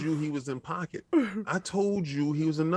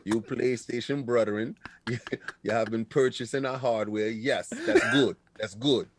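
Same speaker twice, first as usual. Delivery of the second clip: Jim Ryan's put-on accent; 5 semitones lower than usual. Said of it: "I can't with the accent".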